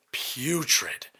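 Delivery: breathy whisper of disgust; a hushed, disgusted aside. Retold or imitated. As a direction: whisper it, grossed out. Recalling the baby's smell.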